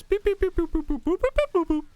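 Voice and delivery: high-pitched chirpy robot beeps; robot beeping. Retold or imitated. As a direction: beep like a tiny droid. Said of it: "a little robot goes".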